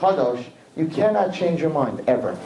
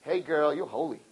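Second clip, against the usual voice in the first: deadpan groom; 8 dB quieter than usual. Retold or imitated. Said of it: "walk in and say".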